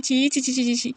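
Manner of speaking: disgusted tutting. Acted. Disgusted at the scandal.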